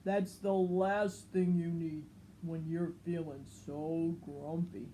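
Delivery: Norman telling. Acted. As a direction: report it like a tattletale. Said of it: "said Norman".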